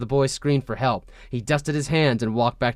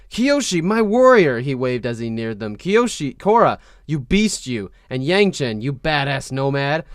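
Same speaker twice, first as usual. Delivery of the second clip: flamboyant greeting. Acted. Wan greeting warriors loudly.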